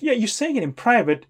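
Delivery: "Yeah" thrown high, then a mocking repeat; sarcastic echo. Real, not acted. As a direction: echo his excuse back, sarcastic. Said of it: "I'm saying it in private".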